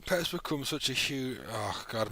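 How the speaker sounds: talking through a yawn; words stretched by a big yawn. Real, not acted. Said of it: "my eyes are closed and I yawn then".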